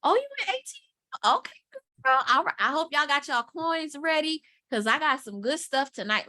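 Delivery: bubbly livestream host hyping viewers; playful mock of a live seller; imitating the live host. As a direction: greet the chat like a hyped host. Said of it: "She's like".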